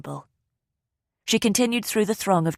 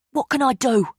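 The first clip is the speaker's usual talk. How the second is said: higher pleading worry; desperate; 8 semitones higher, 4 dB louder than usual. A narrator's reading. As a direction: beg to be of use. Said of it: "sounding desperate".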